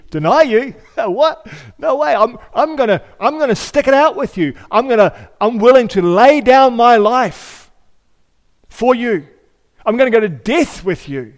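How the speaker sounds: loud, high, eager vow of loyalty; boastful Peter. Retold or imitated. Peter boasting to Jesus he'll stick it out, loud and eager. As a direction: swear you'll never leave him. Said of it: "And Peter said".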